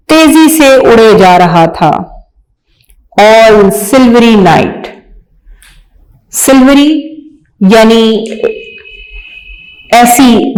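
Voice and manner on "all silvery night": reading a poem aloud slowly, word by word. Shown as a demonstration. Teacher reading a poem to young pupils, slow and clear. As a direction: recite each word clearly for the class. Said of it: "आइए पढ़ते हैं".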